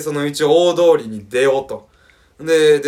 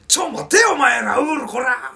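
high, shouted telling-off; mock angry shout; 10 semitones higher than usual. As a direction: snap back at the ranting friend. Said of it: "俺もカチンってきて". (カチンときて高い声で怒鳴り返す)

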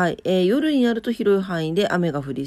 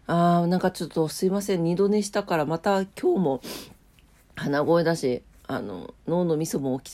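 stuffy nose, just woken up; nasal voice. Real, not acted. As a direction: talk through a blocked nose.

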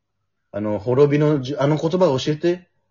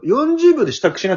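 high, loud bossy matriarch voice; bossy old pirate woman; 12 semitones higher, 4 dB louder than usual. Retold or imitated. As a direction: bark the order like a tough old pirate. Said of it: "って言われて".

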